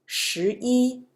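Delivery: 一 in 十一 held high and level; first-tone 一. Shown as a demonstration. Teacher gives counting example, 一 in first tone. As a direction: end 十一 on a high, steady 一. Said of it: "first tone".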